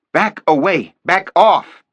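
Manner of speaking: furious high shout; yelled. A narrator's reading. Detective yells at the FBI agents, furious shout. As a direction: lose it and yell them back. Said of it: "I lost it and yelled at them".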